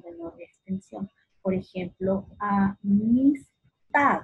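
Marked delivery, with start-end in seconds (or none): 2.4-4.2 "amistad" slowly split, TAD long and strong; sílaba tónica marcada. Shown as a demonstration. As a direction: draw out a-mis-TAD, weight on the last syllable. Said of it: "se pronuncian con mayor intensidad y con mayor extensión". ("amistad" lento, con fuerza en TAD)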